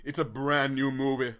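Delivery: badly faked stately orator; sustained, hammed-up insistence; Martin Luther King. Guest correcting the host on his movie, orator impression. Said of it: "Your impersonation is so terrible".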